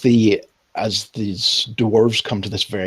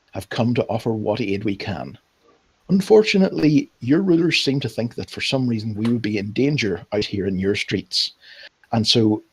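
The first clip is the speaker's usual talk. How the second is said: lightly voiced formal public speech; noblewoman's address; 2 semitones higher than usual. Ambassador to a crowd of poor people, lightly formal address. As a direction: address a crowd with measured, courtly lilt. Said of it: "she addresses the, the crowd".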